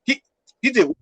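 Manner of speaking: mom reacting. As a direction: mom stops the call to hear the accusation. Mom hearing sister's accusation.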